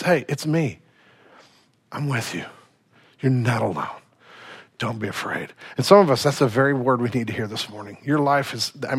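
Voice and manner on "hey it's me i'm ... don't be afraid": soft, quiet comforting voice; gentle reassurance. Retold or imitated. Jesus reassuring his frightened disciples, soft and gentle. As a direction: hush it down like comforting a frightened friend. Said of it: "it's just".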